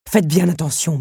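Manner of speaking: a threat held just in check; warning. Acted. The beast warns Belle, stern and loud. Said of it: "prévint-il".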